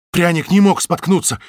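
breathless, blurted out; out of breath. Acted. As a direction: gasp it out after running. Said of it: "запыхавшись, выпалил толстяк".

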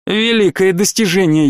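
biting, sarcastic jab; venomous sarcasm. Acted. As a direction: sneer it with venom. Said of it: "ядовито произнёс Ройс".

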